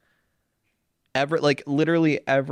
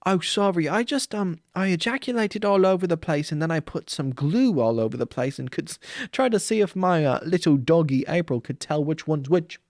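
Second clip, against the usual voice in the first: sheepish trainer Steve; 3 semitones higher than usual. Pretend. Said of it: "Steve, what did you do".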